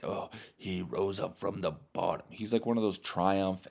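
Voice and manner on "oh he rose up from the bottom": lightly parodied triumphant hero; a hint of put-on movie-hero grandeur; mock an actor's rousing hero line; mock superhero. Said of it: "he's like a superhero in the movie".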